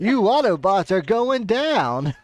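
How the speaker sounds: slow, hammed-up Southern belle accent; mock southern twang. Teasing the new villain idea, slow mock southern twang. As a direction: play a Southern villain, slow and lightly mocking. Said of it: "a southern twang".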